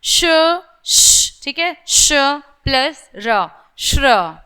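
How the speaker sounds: hushed श then र, joined as श्र; श्र as श plus र; sounding out श्र. Shown as a demonstration. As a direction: build श्र slowly from श and र. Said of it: "जैसे श्रमिक".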